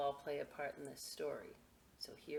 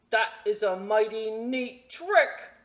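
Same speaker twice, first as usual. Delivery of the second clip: dog's impressed thought; 5 semitones higher, 12 dB louder than usual. Acted. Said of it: "what he thought was".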